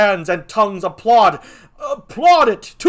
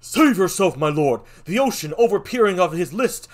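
much higher and louder, breathless alarm; frantic messenger; 10 semitones higher, 10 dB louder than usual. Acted. Messenger warning the king of the rioting mob, frantic. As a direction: rush the warning like the mob is at the door.

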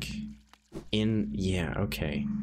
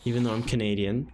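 put-on higher, botched Jamaican-sounding accent; slightly raised, off-target Jamaican lilt; bad Jamaican accent; 4 semitones higher than usual. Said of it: "a really bad Jamaican accent".

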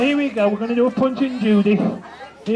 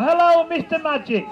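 panto callback; 5 semitones higher than usual. Shown as a demonstration. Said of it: "shout out".

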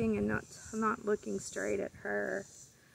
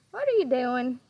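sing-song bird talk; 2 semitones higher, 4 dB louder than usual. Real, not acted. Owner cooing to her pet macaw, sing-song.

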